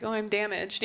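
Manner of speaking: soft, small and wounded "Oh, I'm damaged"; a hint of a broken soul; mock damaged. Shown as a demonstration. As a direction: say "Oh, I'm damaged" like a fragile confession. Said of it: "I say, like".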